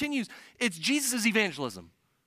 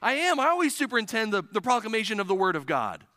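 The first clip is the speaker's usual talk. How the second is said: higher and louder, firm assurance; emphatic Jesus reply; 3 semitones higher, 4 dB louder than usual. Retold or imitated. Jesus answering the church's prayer, emphatic. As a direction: declare it with conviction. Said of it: "he's saying".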